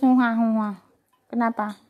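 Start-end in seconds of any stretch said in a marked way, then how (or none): 0.0-0.7 loud imitated wail, "hua hua"; mock crying. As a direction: playfully imitate a whining, crying dog. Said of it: "Kenapa kamu nangis?". (pura-pura menangis keras)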